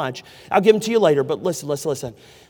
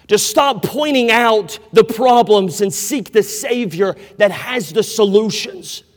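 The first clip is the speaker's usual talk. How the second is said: slow solemn declaration; 3 semitones higher, 5 dB louder than usual. Acted. Solemn slow mission statement.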